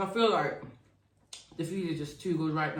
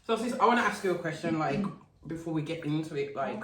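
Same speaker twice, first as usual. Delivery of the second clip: mouth full; 2 semitones lower, faster than usual. Real, not acted. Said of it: "put this mac and cheese in my mouth".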